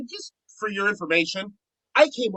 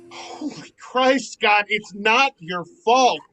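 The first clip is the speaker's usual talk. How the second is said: tearful comfort; slower than usual. Acted. Kyle comforts crying friend.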